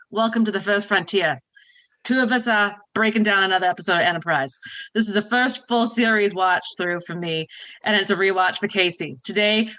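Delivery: hammed-up Boston accent for the show intro; light Boston twang, played for laughs; mock Boston accent. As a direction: open the show like a Bostonian radio host. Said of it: "her wonderful accent".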